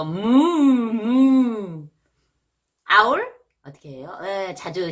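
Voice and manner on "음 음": mock cow moo. Shown as a demonstration. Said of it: "음매 비슷하죠".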